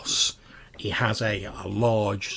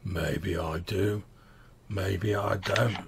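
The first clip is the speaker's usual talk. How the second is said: teasing; slower than usual. Acted. Giant teasing slowly.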